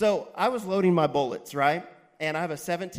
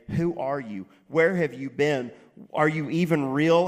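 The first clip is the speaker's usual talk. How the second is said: defiant challenge; 6 dB louder than usual. Retold or imitated. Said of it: "get in front of him and say".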